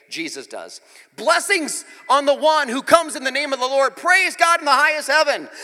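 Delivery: loud, high proclaiming praise; hammed-up crowd shout. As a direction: call it out like the cheering crowd. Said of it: "the people all around him were shouting".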